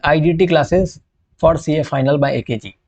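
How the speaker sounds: very slow, like announcing a banner; slow poster read. Pretend. Teacher imagining the temple poster, slow. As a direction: read the poster text word by word.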